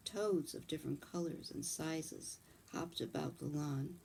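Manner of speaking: measured storybook reading voice; gentle read-aloud storytelling; story narration. A narrator's reading.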